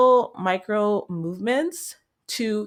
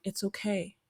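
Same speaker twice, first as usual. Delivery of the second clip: hushed, soothing it's okay, like calming a scared animal; quiet, tender reassurance; softly reassuring self-talk; 6 dB quieter than usual. Retold or imitated. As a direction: gently comfort your own body. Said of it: "I just told my body".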